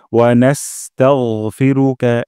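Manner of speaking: নাস্তাগফিরুকা with a thick, heavy গ; slow recitation. Shown as a demonstration. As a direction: make the গ of নাস্তাগফিরুকা thick and full. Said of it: "গাইন মোটা করব". (গাইন মোটা করে নাস্তাগফিরুকা)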